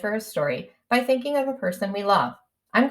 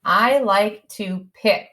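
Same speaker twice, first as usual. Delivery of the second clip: slow dictation; slower than usual. Shown as a demonstration. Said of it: "That word will have to stretch out".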